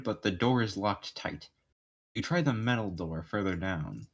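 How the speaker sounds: measured game master narration. Acted. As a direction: describe the scene to the player.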